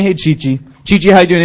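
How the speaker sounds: imitating a calm greeting to a dog. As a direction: greet the dog evenly, without excitement. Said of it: "and it was so calm".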